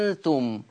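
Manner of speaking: أنتم with the opening alif held very long, falling low at the end; full lengthened madd. Shown as a demonstration. Teacher showing the saturated madd, long-held alif in أنتم. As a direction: hold the first vowel of أنتم for six counts. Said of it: "بالمد المشبع للألف".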